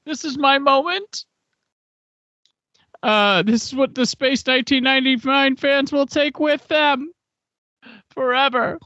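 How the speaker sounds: high-pitched mock-actor declaration; hammed-up big moment. Host plays the committed actor's final moment, high and hammed-up.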